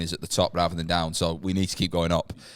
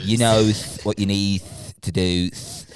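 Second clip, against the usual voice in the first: lightly lisped, hammy villain; 3 dB louder, slower than usual. Pretend. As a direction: lisp through the th sounds. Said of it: "he's just got a lisp".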